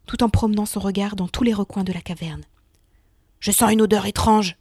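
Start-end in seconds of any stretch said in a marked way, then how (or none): 3.4-4.6 growled. Acted. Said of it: "gronda-t-il".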